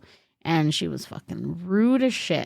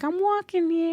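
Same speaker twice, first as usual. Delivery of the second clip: high mock New York "I'm walking here"; movie New Yorker; 9 semitones higher than usual. Pedestrian nearly hit by a car, movie-style New York yell. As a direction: play the classic movie pedestrian. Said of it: "out of a movie".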